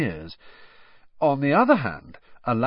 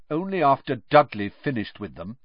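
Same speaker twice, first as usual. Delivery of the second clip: coldly; 2 semitones higher than usual. Acted. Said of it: "said Harry coldly".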